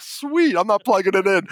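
high-pitched delighted "sweet", easing down; happy. Retold or imitated. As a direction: retell a gleeful little private victory. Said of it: "I'm so happy".

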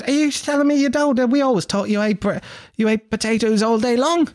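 high, incredulous mock Australian; Australian accent. Australian girl amazed he denies eating potatoes, high mock Australian accent. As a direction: squeak it as an astonished Aussie girl. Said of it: "This is my Australian accent".

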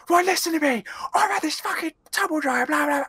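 loud, high-pitched irate caller; angry customer. Acted. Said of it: "every single customer would go from being like".

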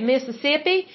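imitated Mississippi local accent, rising at the end. Host showing how locals say it, Mississippi accent. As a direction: say Mississippi like a local, lifting the last syllables. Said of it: "They say it like that".

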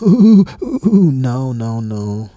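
high shrieking mock laugh; mock hysterical laugh. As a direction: imitate her cackling at you. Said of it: "she just started, she's like".

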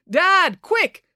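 high, urgent call to Dad; urgent cry. A narrator's reading. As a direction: cry out for quick action. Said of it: "cried Finn".

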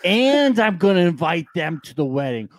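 put-on slow, slurring drunk rant; getting drunker. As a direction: drunk John going on and on. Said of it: "Your impression of John gets drunker and drunker every second".

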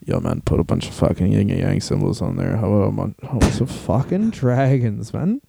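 mock pothead request, dragged out; stoner dude voice. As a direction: play a stoned wrestler ordering trunks. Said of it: "all his trunks were like".

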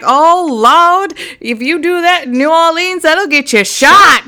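a light take on the startled cab driver; cab driver quote. Retold or imitated. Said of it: "our cab driver was like".

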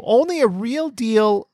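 lightly mocking high Italian accent; a hint of a slow stage Italian. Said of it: "could speak like this".

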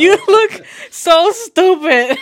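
high, slow, laughing it out; cracking up while teasing. Real, not acted. Laughing at Jose.

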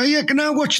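mild mock shout; shouted over. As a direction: lift the pitch and call it over to them. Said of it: "I'd just shout over".

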